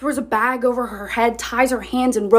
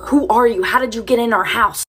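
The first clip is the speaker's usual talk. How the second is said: louder, mock-angry parents; retold yelling; 6 dB louder than usual. Parents yelling at the daughter they don't recognise, loud. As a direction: bark it like parents who don't know her. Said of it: "They start yelling at her".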